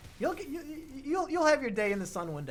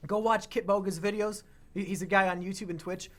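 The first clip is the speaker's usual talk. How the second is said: normal talking voice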